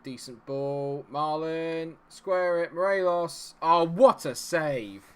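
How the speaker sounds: excited play-calling. Real, not acted. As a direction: urge the attack on, then cry out at the save. Urging the attack, then denied.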